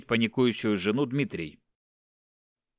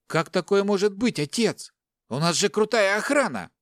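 put-on higher, agitated young voice; upset son; 8 semitones higher than usual. Son protesting to his father in higher disbelief.

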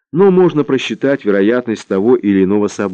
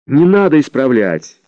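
high, louder alarmed cry; exclaiming; 5 semitones higher, 3 dB louder than usual. Acted. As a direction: call out to stop her. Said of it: "воскликнула Светлана".

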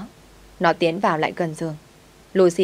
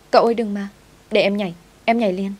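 hurried-sounding plea, mildly raised; anxious pleading; 3 semitones higher than usual. Acted. Maid begs master not to leave her, anxious pleading. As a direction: beg him not to leave you.

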